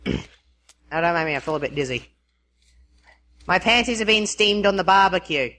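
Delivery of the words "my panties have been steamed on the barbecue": put-on said in an Australian accent; lightly played Aussie delivery. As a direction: read it out as an Australian. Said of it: "phrases that people want said with an Australian accent".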